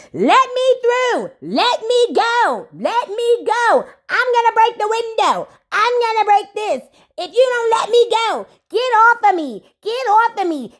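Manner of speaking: hammed-up high frantic yelling; mock hysterical Rolly. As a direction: play a woman held back, pleading to be let go. Rolly raging backstage, voiced.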